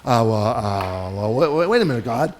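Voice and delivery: hesitant Moses. Retold or imitated. Moses hesitantly objecting to God. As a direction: stall nervously, lightly voiced. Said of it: "Moses starts going".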